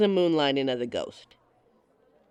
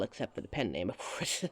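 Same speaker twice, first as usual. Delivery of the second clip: coy fade; 8 semitones lower, 9 dB quieter than usual. Acted. Coy aside fading out.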